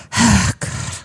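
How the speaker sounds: imitated heavy exasperated sigh; huffing and puffing. Man at the table beside me, huffing. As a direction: huff out a big breath. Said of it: "that huffing and puffing man to my left".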